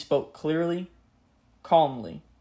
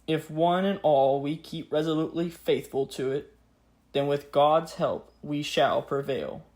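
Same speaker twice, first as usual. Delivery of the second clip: grave 1940s war broadcast. Acted. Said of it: "Let us now hear the words of the king, just as they were spoken".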